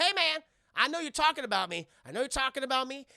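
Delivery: loud, high-pitched mock protest; high, affronted yell; indignant callout. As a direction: imitate a touchy sidekick butting in. Retold Tucker accusing laughing men.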